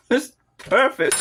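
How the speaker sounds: high, pleased exclamation after tasting; delighted. Real, not acted. Cook tasting her own salad, delighted and high. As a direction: sing out that it's perfect.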